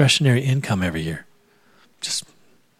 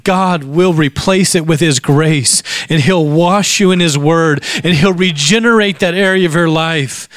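raised, building preacher's exhortation; fervent preaching; 3 semitones higher than usual. Real, not acted. Preacher promising the congregation God will replace losses, fervent preaching. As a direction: press the promise home to the congregation with rising force.

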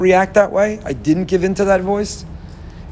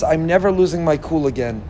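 earnest pledge. Retold or imitated. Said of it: "We make a pledge and a promise".

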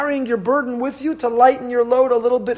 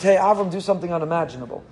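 quick throwaway line; faster than usual. Retold or imitated. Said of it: "this is not just".

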